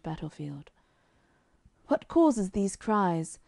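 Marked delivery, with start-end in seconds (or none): 1.9-3.4 slow, tired royal question; a weary, dying king's slow question; wearily. Acted. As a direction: ask it as if worn out by pain. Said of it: "said the king wearily".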